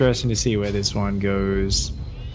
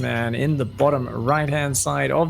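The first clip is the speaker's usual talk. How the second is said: announcer introduction; slower than usual. Real, not acted. Announcing first player before the map.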